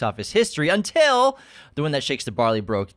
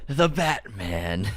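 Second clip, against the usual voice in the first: slow menacing villain voice; Scarecrow voice; 2 semitones lower, much slower than usual. Retold or imitated. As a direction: linger on The Batman creepily. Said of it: "no one says the Batman like, like Scarecrow".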